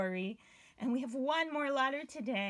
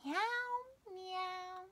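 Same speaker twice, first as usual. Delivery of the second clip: cat meow; 6 dB quieter than usual. Shown as a demonstration. Imitating cat.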